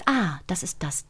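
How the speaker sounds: whispered moment of recognition; inner whisper. Retold or imitated. Actress describing her inner voice, a soft whisper. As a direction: breathe the realisation softly. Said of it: "und weiß".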